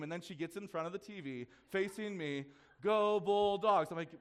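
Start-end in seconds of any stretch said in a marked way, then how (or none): 2.8-3.9 mock cheer. Daughter cheers in front of TV.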